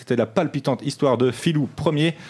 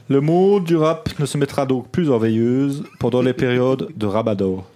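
put-on Liège accent. Chronicler reads the rap news in a Liège accent. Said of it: "Avec un accent liégeois".

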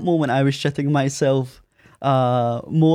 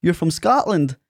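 lightly mimicked gushing girl, pitched higher; imitated American girl; 8 semitones higher than usual. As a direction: play her amazed reaction, voice lifted. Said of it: "I had one girl say".

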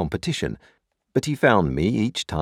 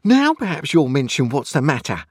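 high, loud, exasperated demand; out-of-breath exasperation; 9 semitones higher, 6 dB louder than usual. A narrator's reading. Sister who just pounced on Joe, exasperated. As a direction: demand an answer, pitched up and louder. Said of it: "out of breath".

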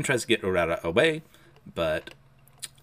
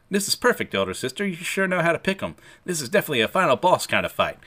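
higher, thrilled voice of a battle lover; eager and raised in pitch, relishing the fight; excited fighter; 4 semitones higher than usual. Acted. Maruo tells his opponent he's happy to fight him, excited.

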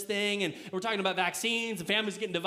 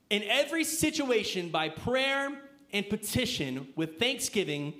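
slow, deliberate emphasis; slower than usual. Real, not acted. Emphasising verse slowly.

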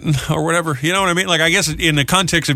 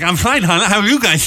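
Sid the Sloth voice; 6 semitones higher than usual. Retold or imitated. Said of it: "You start talking like Sid the Sloth".

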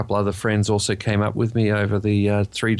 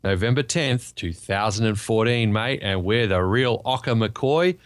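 broad put-on Ocker Australian, drawn out; mock Ocker accent. Host opens as the real Ocker McCoy, mock Ocker accent. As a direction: lay on a hammed-up Ocker twang. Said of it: "figured out how to do the accent".

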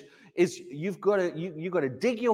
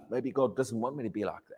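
doubtful hush; 9 semitones lower, 8 dB quieter than usual. Retold or imitated. Doubting thought voiced.

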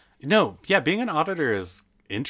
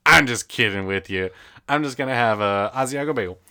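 put-on old man; 4 semitones higher, 9 dB louder than usual. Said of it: "like, this old, old man".

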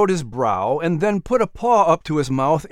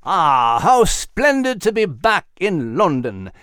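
cheered; 2 semitones higher, slower than usual. Acted. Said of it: "Nigel cheered".

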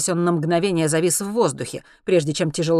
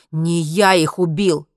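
louder, drawn-out protest; blurted denial; 6 dB louder, slower than usual. A narrator's reading. Henry denies the killings to armed men, blurted protest. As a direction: push it out as a heated denial. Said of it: "выпалил Генри".

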